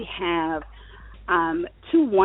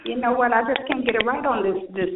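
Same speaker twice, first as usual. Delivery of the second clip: echoey voice like inside a tunnel; echoing tunnel; 5 semitones higher than usual. Real, not acted. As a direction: speak through a hollow, echoing line. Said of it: "sounds like you're in a tunnel".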